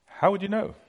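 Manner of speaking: high rising question. Shown as a demonstration. Preacher asking the crowd, high rise.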